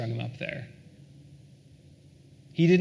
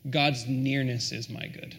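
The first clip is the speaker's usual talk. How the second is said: savoured quote; 3 semitones lower than usual. Real, not acted. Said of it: "I love this".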